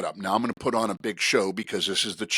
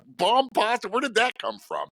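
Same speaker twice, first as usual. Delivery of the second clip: high, loud, laughing "Bomb Pasta?"; giggly incredulous repeat; amused disbelief; 12 semitones higher, 3 dB louder than usual. Retold or imitated. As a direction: crack up at the silly name. Laughing at the mangled name.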